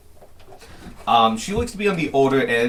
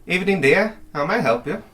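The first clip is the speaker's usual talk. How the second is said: clerk voice; 7 semitones higher, 3 dB louder than usual. Acted. GM voices clerk greeting party.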